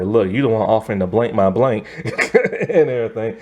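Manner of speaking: quoting the line while laughing; laughing through quote. Retold or imitated. Vlogger retelling the villain's rude line, laughing through it. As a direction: chuckle through the rude comeback.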